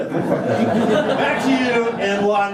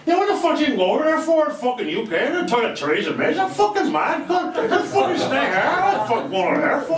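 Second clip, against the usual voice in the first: fast, brash heckling question; rowdy heckler; 6 semitones higher, much faster than usual. Acted. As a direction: fire it off like a drunk heckler. Heckler in a press conference.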